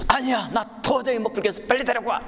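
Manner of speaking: an angry passenger demanding that the purser bring the culprit; mock enraged passenger. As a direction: play the furious passenger insisting. Passenger refuses to calm down.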